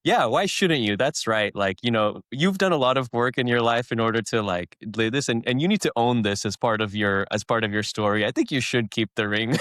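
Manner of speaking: validating chatbot. Retold or imitated. Chatbot encouraging Bilbo to keep the ring, validating. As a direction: egg them on like a flattering chatbot. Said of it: "Chat G P T is like".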